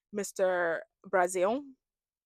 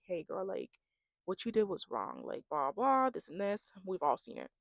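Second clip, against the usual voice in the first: softer, composed retelling; calm, mature; 3 semitones lower, 9 dB quieter than usual. Retold or imitated. Contestant telling her friend she was wrong, calmly. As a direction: imitate someone correcting a friend without raising the voice. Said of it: "She did so calm and collective and mature, like, she was not yelling".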